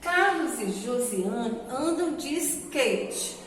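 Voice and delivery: slow, clear reading of a sentence. Shown as a demonstration. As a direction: read it slowly, word by word for pupils. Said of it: "Vamos ler a frase a seguir".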